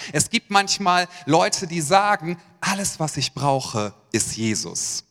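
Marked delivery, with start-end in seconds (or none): 2.6-5.0 pious sounding. Retold or imitated. Pastor imitating a churchgoer who sounds pious. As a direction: play the over-spiritual believer, hushed and devout. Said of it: "Das hört sich so geistlich an".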